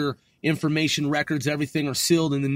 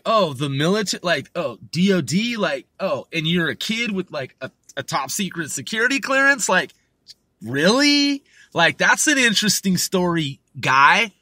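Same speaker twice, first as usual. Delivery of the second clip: mock incredulity. Woman brushing off his childhood story, mock incredulous. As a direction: lightly act out condescending disbelief. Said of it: "pretending as if what he was saying was ludicrous".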